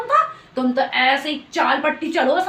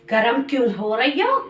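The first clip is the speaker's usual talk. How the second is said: mocking echo; 5 semitones lower than usual. Echoes the other's question back.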